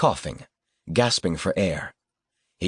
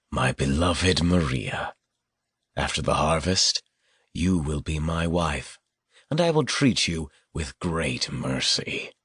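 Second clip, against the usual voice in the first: slow, low and sickly sweet; menacing tenderness; 3 semitones lower than usual. Acted. Killer proposes, menacingly tender.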